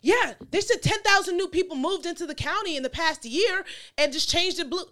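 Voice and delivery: lightly voiced gossiping neighbor; imitating neighbor. Daughter mimics her mother's neighbor, imitating neighbor.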